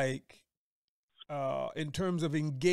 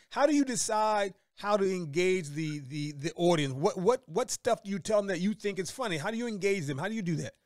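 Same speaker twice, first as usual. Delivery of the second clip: normal talking voice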